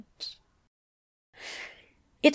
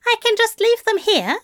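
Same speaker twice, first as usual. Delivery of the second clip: flustered insisting; 12 semitones higher, 4 dB louder, faster than usual. Acted. Flustered man insisting at desk.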